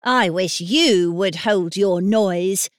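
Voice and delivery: slow, curt retort; rude. Acted. Nurse snaps rudely at the singing boy, slow and curt. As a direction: shut him up with disdain. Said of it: "said the nurse rudely".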